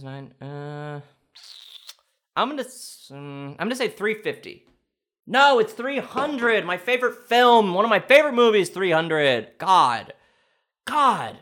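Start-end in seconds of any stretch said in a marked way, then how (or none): 5.3-6.6 slow, louder, a stressed NO; dawning groan of recognition; emphatic correction. Real, not acted. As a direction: spell out the right answer. Realizes answer, slow emphatic.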